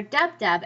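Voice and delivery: "dub, dub" with two equal strong beats; spondaic stress. Shown as a demonstration. Teacher explaining spondaic meter, both "dub"s stressed. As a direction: hit both "dub"s evenly. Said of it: "You just stay up".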